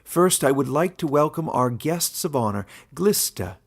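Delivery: lightly voiced old warden, genial; a genial old ruler opening the meeting. Warden addressing his animal council, lightly voiced and genial.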